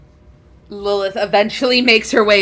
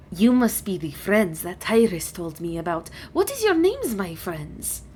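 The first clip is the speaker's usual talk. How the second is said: lightly voiced dragon with lilting questions; a hint of a stately, curious dragon; dragon, courteous; 4 dB quieter than usual. Dragon greets Tyrus's friends, mildly courteous.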